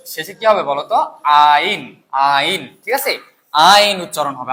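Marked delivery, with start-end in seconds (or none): 1.2-2.8 আইন said as a clear ain ending; saying the ending ain. Shown as a demonstration. Teacher to students, modelling the ending আইন. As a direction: give the ending আইন cleanly, twice.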